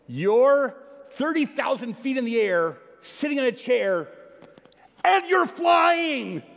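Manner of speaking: rising to a high, loud, slow shout; comedian's amazement. Retold or imitated. Preacher quotes a comedian to the congregation, building amazed shout. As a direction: build the wonder until it bursts. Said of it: "he says".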